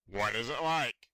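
booming whale. Acted. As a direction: ask it like a big curious whale. Whale asks the fish.

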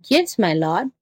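meek answer with a rising end; meek jackal. Acted. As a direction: humour the angry master obediently. Jackal meekly answers the raging tiger.

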